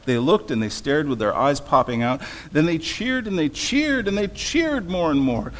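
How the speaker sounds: animated read-aloud with strong rhythmic stresses; storybook reading. A narrator's reading. Preacher reads Dr. Seuss to listeners, animated storytelling. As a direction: lean into the rhyme, punching key words. Reads picture book to congregation.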